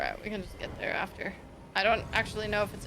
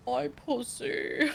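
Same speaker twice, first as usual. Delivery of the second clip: laughing imitation; 5 semitones higher, much slower than usual. Imitating the glum demon line.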